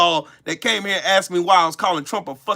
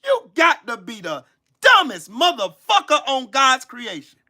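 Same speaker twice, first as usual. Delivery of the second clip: shouted insult; 2 semitones higher than usual. Real, not acted. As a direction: yell it, hitting dumbest hard. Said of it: "getting cussed the fuck out".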